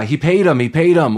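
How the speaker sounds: half-acted loud protest; mock accusation. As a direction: call out the cheat, repeating it emphatically. Voicing the coach accusing the other team.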